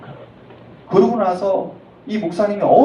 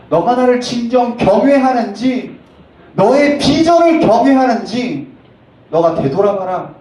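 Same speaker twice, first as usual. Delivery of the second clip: slow, louder, stern rebuke; mild mock divine scolding; God rebuking; 5 semitones higher, 4 dB louder than usual. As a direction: scold as God, weighing each word. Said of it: "하나님이 오히려 꾸짖으셨다".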